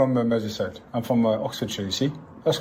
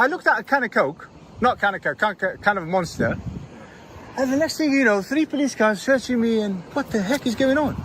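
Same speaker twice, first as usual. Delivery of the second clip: higher, mocking Scottish accent; put-on Scottish accent; 4 semitones higher than usual. Auditor jeering at officers to a passerby, in a put-on Scottish accent. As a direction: taunt the police in a hammed-up Scottish accent. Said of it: "my Scottish accent was good or not".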